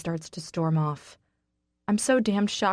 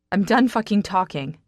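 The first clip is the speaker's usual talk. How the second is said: angry outburst; 3 semitones higher, 6 dB louder than usual. Acted. Woman cutting off her friend mid-argument, angry and loud. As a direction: slam the door on the talk.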